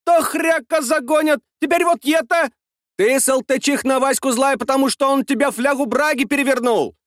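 high bickering woman's voice; quarrelling village woman. A narrator's reading. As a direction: trade barbs, pitched high. (перебранка баб)

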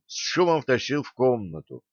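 ordinary delivery, nothing marked

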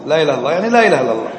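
fast mock parroting of a useless reply; teacher imitating someone who just repeats the phrase; mocking a non-answer. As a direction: rattle off the empty answer fast. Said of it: "طيب، إيش معناها؟".

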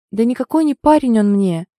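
put-on girl denying the dead man was her boyfriend; hysterical denial. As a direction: deny it hysterically. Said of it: "истерично замотала она головой".

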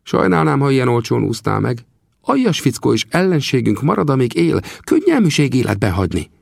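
high, scornful voice of a vengeful Apache; vengeful chief. Acted. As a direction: spit out the grudge against the enemy.

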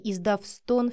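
plain reading voice

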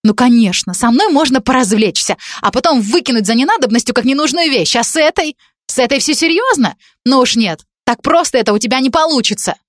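put-on high, accusing young woman's voice; a spurned girl throwing blame; jealous girl. Jealous college girl accusing Dan, high and bitter.

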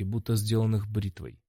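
ordinary delivery

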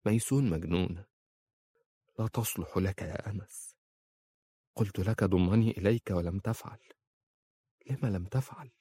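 hushed, despairing plea, voice sinking away. A narrator's reading. أمام حبيبها ميسون تتوسل في يأس، بصوت خافت متهدج. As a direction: let the hope drain out as she begs. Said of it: "قالت في يأس".

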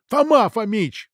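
high, drawn-out plea; pleading. Acted. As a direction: beg the detective to let you at him. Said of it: "взмолился Дудин".

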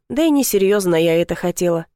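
usual speaking voice

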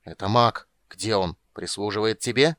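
angry, loud demand; furious shout. Acted. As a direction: shout at the dragon in rage. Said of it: "в ярости закричал Стурм".

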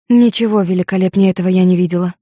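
ordinary delivery, nothing marked

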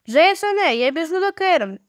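a calling shout that eases on the second line. Acted. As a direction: call out to a brother at the far end of the ship. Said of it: "гукнула йому Джулія".

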